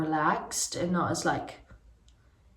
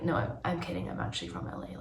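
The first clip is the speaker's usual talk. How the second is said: put-on LA accent; 2 semitones lower, 8 dB quieter, faster than usual. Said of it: "I was doing this accent all night".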